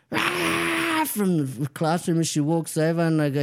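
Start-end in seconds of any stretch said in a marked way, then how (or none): 0.1-1.0 high drawn-out mock "ah"; nun's shocked cry. Nun spotting the dropped boy, long high "ah". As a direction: let out a long high alarmed "ah". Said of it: "the nun goes".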